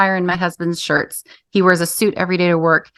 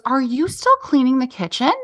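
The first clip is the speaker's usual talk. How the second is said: higher, startled question; surprised husband; 5 semitones higher than usual. Retold or imitated. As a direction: jump up caught off guard. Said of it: "he shot up and he goes".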